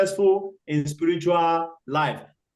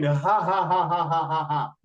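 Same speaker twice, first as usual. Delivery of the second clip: mock laugh; 4 semitones lower than usual. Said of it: "the crocodile was laughing".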